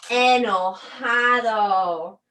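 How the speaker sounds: loud, slow, angry "Enojado"; mock angry. Shown as a demonstration. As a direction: stretch it out with mock anger. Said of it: "not a fun sentimiento". (enojado, lento y enfadado)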